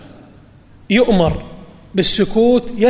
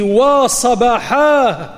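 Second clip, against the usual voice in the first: long drawn-out, higher warning call; 4 semitones higher, much slower than usual. Retold or imitated. Prophet warns his people from mount Safa, drawn-out calling. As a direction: imitate a cry of alarm, stretching each syllable. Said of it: "وصاح بأعلى صوته".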